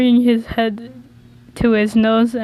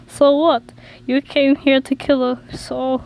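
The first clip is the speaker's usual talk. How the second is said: Tord's Norwegian lilt on Tom's line; Norwegian accent for Tord; 3 semitones higher than usual. Acted. Tord angrily accusing Tom, in a light Norwegian accent. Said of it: "Oh, this is Tom".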